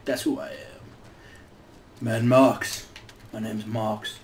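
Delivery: bad Australian accent, slow and tough; hammy fake Australian tough guy. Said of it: "Terrible, terrible Australian accent".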